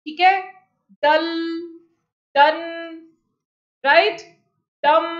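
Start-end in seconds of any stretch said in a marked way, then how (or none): 1.0-2.6 डल and डन as isolated syllables, humming on the final L and N; syllabic consonant demo. Shown as a demonstration. Teacher showing students syllabic sounds, डल and डन isolated with held endings. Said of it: "ये कहे जाते हैं syllabic consonants". 4.8-5.1 डम as one isolated syllable closing on a held M; syllabic consonant demo. Shown as a demonstration. Teacher showing students a syllabic consonant, डम with a held M. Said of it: "ये कहे जाते हैं syllabic consonants".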